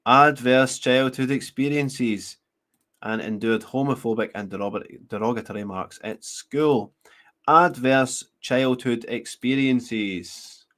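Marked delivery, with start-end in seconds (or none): 0.1-2.4 slow, drawn-out repetition of the phrase; pointed emphasis. Real, not acted. Presenter repeating a familiar phrase to listeners, pointed emphasis. 7.5-10.6 very slow, word by word; pointed emphasis. Real, not acted. Presenter hinting at a phrase regular listeners know, pointed emphasis.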